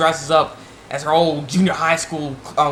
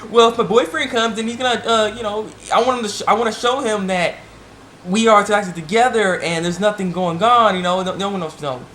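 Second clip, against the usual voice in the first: quoting Hayakawa; 5 semitones higher than usual. Retold or imitated. Hayakawa voiced in recap.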